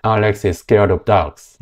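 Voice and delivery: very slow demo, scared with tense sc; tensed sc, slow. Shown as a demonstration. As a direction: read it slowly, hard sc. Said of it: "scare가 아니라 scared". (천천히 된소리로 scared)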